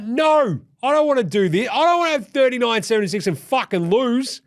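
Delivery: put-on high, loud whiny old-man complaint; mock LeBron whining. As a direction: moan it like a tired veteran. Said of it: "He's like".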